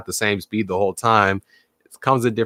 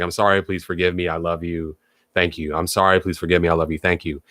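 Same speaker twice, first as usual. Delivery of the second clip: sincere healing prayer; 5 semitones lower than usual. Shown as a demonstration. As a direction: murmur it like a heartfelt apology. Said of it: "that's the Ho'oponopono type of healing".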